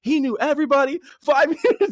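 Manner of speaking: high, disbelieving question; imitating his own surprise; mock disbelief. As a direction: act stunned at the news. Incredulous reaction.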